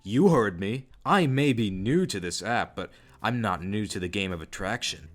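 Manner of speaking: understated menace, imitating him; a touch of threat in a retold quote; hint at menace without raising your voice; almost threatening. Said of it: "Joseph's tone almost turns threatening".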